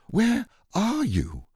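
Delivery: high, drawn-out distressed call; Christopher Robin. A narrator's reading. Boy calling for missing Pooh, high plaintive cry. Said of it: "cried Christopher Robin".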